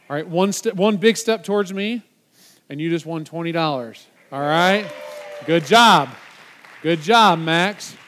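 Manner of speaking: big cheer for the winner; loud praise. Real, not acted. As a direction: shout out good job to Max. Congratulating volunteer.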